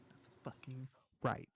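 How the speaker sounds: slow gravelly-free whisper. Acted. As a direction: whisper it slowly. Whispered repeat, grumpy old man bit.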